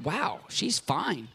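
slow, soft, amazed; amazed murmur. Retold or imitated. Preacher marvelling at the healing, soft and slow. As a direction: breathe it in awe.

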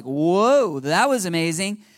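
imagining the disciples' amazement; awed. Retold or imitated. Disciples coming down from the mountain, awed. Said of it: "probably in awe, right? Just like".

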